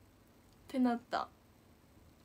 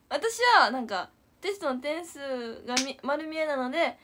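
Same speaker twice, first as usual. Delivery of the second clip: normal talking voice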